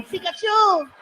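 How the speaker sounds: high, far-off mock call "Pikachu!"; mock heckle from behind. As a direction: yell it like a heckler in the crowd. Guy behind calling out.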